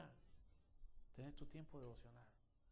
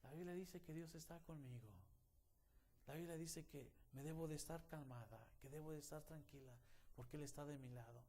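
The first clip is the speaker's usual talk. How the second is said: calmed daughter; 2 semitones higher, 4 dB quieter than usual. Retold or imitated. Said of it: "y se calma".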